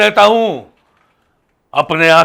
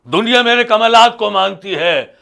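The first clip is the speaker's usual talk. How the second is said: raised proclamation; 3 semitones higher than usual. Acted. Holy man repeats his boast to the host, raised proclamation. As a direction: lift the whole boast in pitch.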